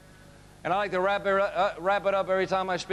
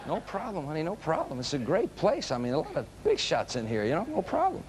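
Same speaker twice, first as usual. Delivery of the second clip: acting unworried, soft, with pitch jumping about; feigned nonchalance; 3 dB quieter than usual. Husband reassuring his wife in the receiving line, mock nonchalant. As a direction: play it cool, unconvincingly, voice skittering.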